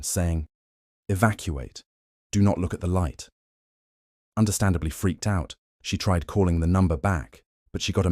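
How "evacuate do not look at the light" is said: robotic radio transmission voice; flat, distorted military broadcast. Retold or imitated. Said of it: "a distorted, robotic voice, almost like a military transmission".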